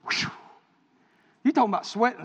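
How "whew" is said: quick blown-out breath; relieved whew. Retold or imitated. Suitor recalling his sweat before asking daddy, nervous whew.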